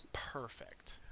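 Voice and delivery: soft sinister whisper of satisfaction. Acted. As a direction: breathe the word out in a whisper. Savoring the villain's advantage.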